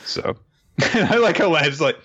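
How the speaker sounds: breathy laugh through the words. Real, not acted. Recapping a funny scene, laughing through it. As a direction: giggle your way through it.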